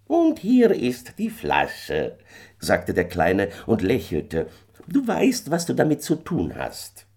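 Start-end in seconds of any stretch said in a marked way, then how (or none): 0.1-2.2 high, eerie little fairy man, pleased with himself; a knowing little man calling out, pitched high; little man's voice. A narrator's reading. Little man calls to Michael on the hill, high and eerie. 4.9-7.1 high, eerie little fairy man, pleased with himself; a knowing little man calling out, pitched high; little man's voice. A narrator's reading. Little man calls to Michael on the hill, high and eerie.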